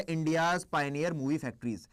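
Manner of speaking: slow, word by word for notes; slow dictation. Shown as a demonstration. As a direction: spell it out slowly for students to copy. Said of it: "was one of the India's pioneer movie factories".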